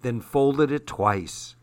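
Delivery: even, gentle read-aloud narration; story narration. A narrator's reading. Host reading a novel to radio listeners, storytelling voice. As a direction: read the chapter to young listeners.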